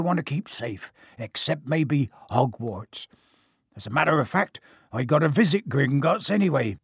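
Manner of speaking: lightly voiced big, bluff giant; a gruff, friendly giant, lightly done; Hagrid voice.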